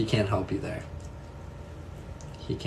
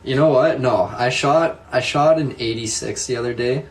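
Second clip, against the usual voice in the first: excited boast; 3 semitones higher, 6 dB louder than usual. Real, not acted. Boasting about golf score.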